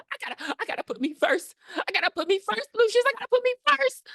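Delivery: very high, building mock chant; hammed-up self-interest. Voicing the girl who abandons others, high hammed-up chant. Sings selfish girl's motto.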